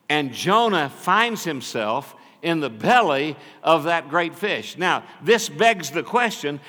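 loud, high, driving preacher's retelling; full-force preaching. Acted. Preacher retelling Jonah to the congregation, full-force preaching. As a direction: preach it out big to the whole church.

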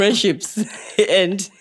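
slow, mock-dramatic. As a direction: draw it out theatrically. Dramatic joke ending.

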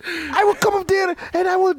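hammed-up angry shopkeeper voice; broad comic immigrant accent; mocking Asian accent. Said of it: "it put me in character".

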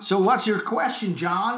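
lightly faked American astronaut; Neil Armstrong. Astronaut asks the caller's question, half-hearted American accent. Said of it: "my American accent".

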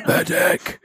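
high urgent call for help; shouting for a medic. Acted. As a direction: yell for a medic, rising up. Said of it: "start shouting for a medic".

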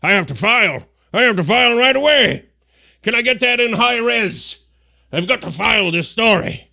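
breathless eager reporter voice; mock excited reporters. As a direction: gush like a news-hungry journalist. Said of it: "everybody's nodding like".

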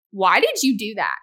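sharp, accusing why; how she snaps at her husband, accusing; snappy accusing question. Retold or imitated. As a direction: demand an answer, exasperated. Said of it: "And that's exactly how I say it".

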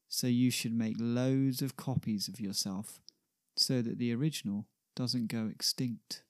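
measured sonnet reading; poem recital. Acted. Ben reads Shakespeare's sonnet aloud to John, in recital style. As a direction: read it out evenly, line by line, with pauses.

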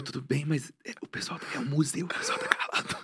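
soft, laughing whisper. Retold or imitated. Begging friend to be quiet in a museum, whispered. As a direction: whisper a plea to keep it down.

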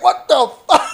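high, laughing mock shock; acting stunned mid-story, with a laugh; shocked reaction. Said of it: "you're like".

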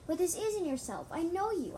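high, loud protest; yelling back. A narrator's reading. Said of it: "I tried yelling back".

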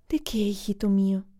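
susurrado y tierno; susurro de madre. A narrator's reading. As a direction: susurra para calmar al hijo. Madre consuela al niño. (la madre susurra al niño asustado)

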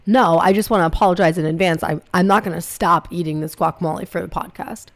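talking while munching chips; words around a mouthful of chips; crunching chips. Real, not acted. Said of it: "I will be chewing on it".

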